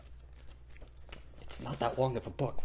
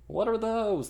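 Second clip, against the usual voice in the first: much higher, louder meme jeer; mocking jeer; 12 semitones higher, 6 dB louder than usual. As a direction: sneer at his shoes. Ferryman mocks Thor's clothes.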